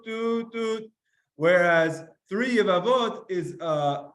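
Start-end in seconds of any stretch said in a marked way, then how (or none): 0.0-0.9 shofar note imitation. Shown as a demonstration. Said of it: "So then we do".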